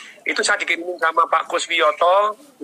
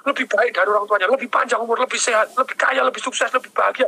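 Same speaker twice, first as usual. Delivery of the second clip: retold fatherly scolding, raised pitch; mild, insistent telling-off, pitched up; 5 semitones higher than usual. Father corrects his children about how to pray, mildly scolding. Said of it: "kemudian saya marahin mereka".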